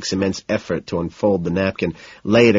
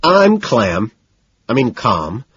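flustered; 3 semitones higher, 5 dB louder, slower than usual. Acted. Agitated man insisting to his date he is calm, flustered. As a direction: blurt it out flustered, then rein it in. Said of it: "I say, breathing in hard, trying to smile".

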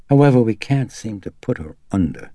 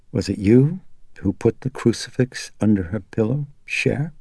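a touch of strain, tight and worried; understated strain in a worried question; tense and strained; 4 semitones higher than usual. Acted. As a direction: ask it with held-back tension. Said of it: "With a current of tension and strain in her voice".

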